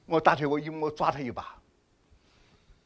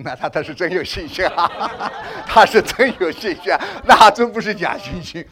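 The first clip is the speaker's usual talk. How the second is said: laughing teasing; 5 dB louder than usual. Real, not acted. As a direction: tease the brother while laughing. Teasing brother who felt nothing.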